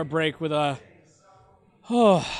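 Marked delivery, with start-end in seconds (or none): 1.9-2.3 heavy, audible sigh. Real, not acted. Host searching for a hopeful prediction, sighing. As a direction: let out a long breathy "oh".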